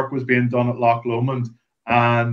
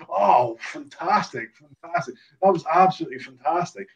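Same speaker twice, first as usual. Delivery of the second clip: mildly higher admiring compliment; 4 semitones higher, 3 dB quieter than usual. Retold or imitated. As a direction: savour each fantastic. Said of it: "turns around to me and goes".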